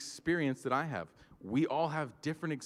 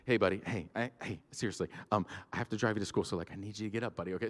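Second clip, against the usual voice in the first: gentle but firm; 3 semitones lower, 4 dB quieter, faster than usual. Retold or imitated. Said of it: "he's like".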